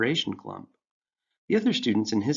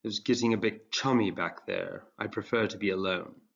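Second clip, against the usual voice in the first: droning. Acted. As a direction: drone it without interest. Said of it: "he droned".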